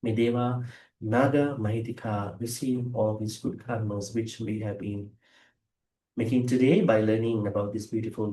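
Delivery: even-toned, solemn blessing; blessing prayer. Real, not acted. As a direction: invoke protection in a measured, low-key voice.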